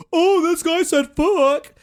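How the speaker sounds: high, loud, slow, shocked gasp; a pearl-clutching gasp; mock scandalized. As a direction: play the scandalized prude.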